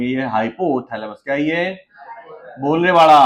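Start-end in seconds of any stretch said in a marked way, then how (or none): 0.0-1.2 हाइपोथैलेमस drawn out syllable by syllable, lower; slow spelled-out term. Shown as a demonstration. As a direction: dictate हाइपोथैलेमस slowly while writing it. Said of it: "ये लिख देता हूँ".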